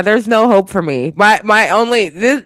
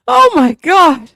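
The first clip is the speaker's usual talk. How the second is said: exasperated; 11 semitones higher, 5 dB louder than usual. Real, not acted. Laughing exasperation.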